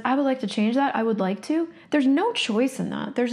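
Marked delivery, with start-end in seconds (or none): 0.0-1.7 mild, noncommittal would-like-to; half-hearted wishing. Retold or imitated. Imitating the client's wishy-washy, choiceless tone. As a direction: say it like you don't really mean it. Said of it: "Do you guys get that energy when he says".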